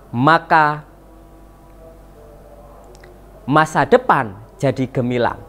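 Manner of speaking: measured verse reading, pausing after each line; pantun recitation. Shown as a demonstration. Teacher models a pantun for pupils, measured recitation. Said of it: "dengan lafal, intonasi, dan ekspresi yang tepat".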